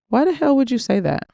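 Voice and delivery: indignant, pitched high; shocked. Acted. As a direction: blurt it out in disbelief. Shocked retort in story.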